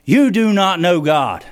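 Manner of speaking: sudden loud burst, pitched low; hard-hit sermon declaration; emphatic rebuke. Real, not acted. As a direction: break the hush with a forceful verdict. Sudden loud rebuke after hush.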